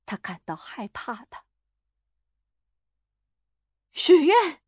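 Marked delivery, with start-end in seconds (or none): 3.9-4.6 high, loud, unyielding cry; forceful, commanding yell; hard shouted command. A narrator's reading. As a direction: shout it as a firm order. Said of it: "他叫喊， 声音强硬".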